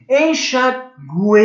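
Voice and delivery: Enxaguei slowed, uei held together; drawn out. Shown as a demonstration. Teacher sounds out another triphthong. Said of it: "uma vogal e duas semivogais".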